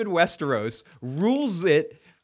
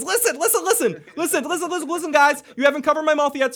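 very high, rapid-fire repeated interruption; urgent mock pleading; 10 semitones higher, faster than usual. Captive dwarf talks his way out with his captors, urgent mock pleading. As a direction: plead frantically in a much higher voice, half laughing.

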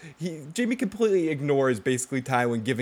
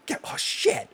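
whispered laugh. Real, not acted.

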